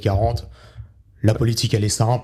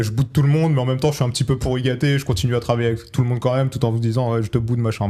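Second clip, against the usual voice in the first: a hint of a pouting spoiled kid, a touch higher; sulky kid voice; 3 semitones higher than usual. Host imitating a sulky spoiled schoolkid, mildly mock-pouty. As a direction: play the sulking schoolkid lightly. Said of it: "l'image du petit gosse dans la classe".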